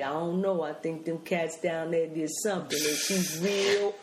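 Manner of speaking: lightly voiced blaxploitation dad; Chicagoan-cool father. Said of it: "My father is this Chicagoan cool".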